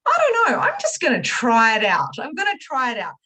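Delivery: playing my doubtful but curious self; unsure, tentative self. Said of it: "And I'm like".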